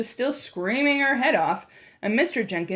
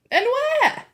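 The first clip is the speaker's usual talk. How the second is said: puzzled demand; 6 dB louder than usual. A narrator's reading. Grandmother puzzled, questions child.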